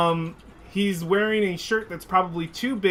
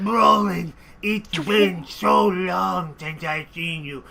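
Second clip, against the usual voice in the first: put-on old auntie. Old aunt asks for kiss.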